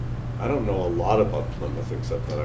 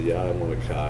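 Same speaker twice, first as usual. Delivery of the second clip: put-on Boston accent. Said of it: "I fall right back into my Boston accent".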